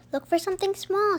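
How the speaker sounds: high, loud eager call. Acted. Ollie calling to the class, high and loud. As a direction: call out to the searchers.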